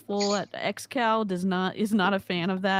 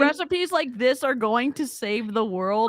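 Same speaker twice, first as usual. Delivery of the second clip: incredulous; 3 semitones higher than usual. Real, not acted. Repeating his claim in disbelief.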